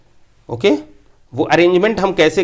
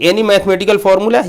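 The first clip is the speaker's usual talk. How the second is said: slow reading; 3 semitones higher, slower than usual. Shown as a demonstration. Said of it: "यहाँ पे हमने लिखा है".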